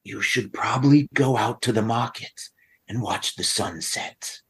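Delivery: lightly acted voice in the head; a hint of a whispering tempter, not truly whispered; voiced whispers. Whispers tempt a player toward the market, lightly put-on voice. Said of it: "you hear from the same whispers".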